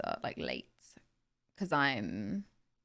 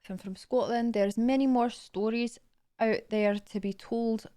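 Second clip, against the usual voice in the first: attempted Scottish accent, measured pace. Streamer trying to read a story line, Scottish accent. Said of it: "To be read in a Scottish accent".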